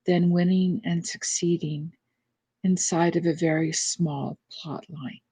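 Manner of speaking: measured reading in short, spaced phrases; reflective reading aloud. Real, not acted. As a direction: read the passage deliberately, firm at first, then settling. Reads out a meditation passage.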